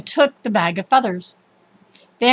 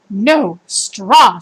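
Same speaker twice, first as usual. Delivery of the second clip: quarrelsome; 6 dB louder than usual. Acted. Quarreling couple in garden.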